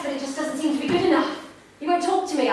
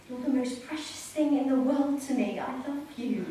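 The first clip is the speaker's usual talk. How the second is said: tender; 6 dB quieter than usual. Acted. Mother tenderly reassures child.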